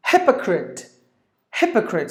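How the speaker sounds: "Hypocrite" as HIP-uh-crit; careful model of "Hypocrite", front-stressed; stress on first syllable. Shown as a demonstration. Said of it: "give the stress for the first syllable".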